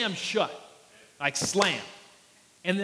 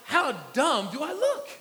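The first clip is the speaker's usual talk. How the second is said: laughing disbelief; 6 semitones higher than usual. Retold or imitated. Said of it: "And I'm like".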